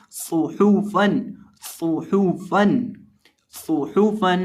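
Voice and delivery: सुहूफन with lips rounded on सु and हू, fa plain, no nasal end; सुहूफन said with rounded lips, no ghunna. Shown as a demonstration. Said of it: "होंठों को गोलाई में पढ़ेंगे".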